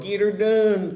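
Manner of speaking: lightly imitated comedian's catchphrase; playful catchphrase delivery, lightly put on; Larry the Cable Guy. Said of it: "Larry the Cable Guy".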